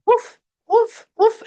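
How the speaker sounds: high, loud yappy barking woofs; dog barks. Retold or imitated. Bride barking on command for the groom, high and loud. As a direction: bark like a little dog. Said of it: "And she's like".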